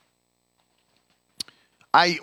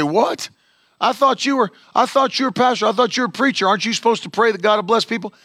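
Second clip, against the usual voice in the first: indignant caller; 5 semitones higher, faster than usual. Retold or imitated. Caller shocked by pastor's refusal.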